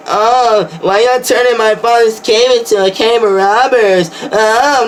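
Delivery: lightly put-on, limp and polite; mock a timid Jesus pleading with robbers; mock meek Jesus. Preacher mocks a meek Jesus in the temple, limp and pleading. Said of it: "He didn't go up in there and say".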